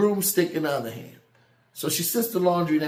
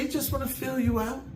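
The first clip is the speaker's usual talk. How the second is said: soft, higher voice for mom; mom's soft reassurance; 7 semitones higher, 6 dB quieter than usual. Retold or imitated. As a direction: softly reassure as a retold mom. Mom reassuring him about cat.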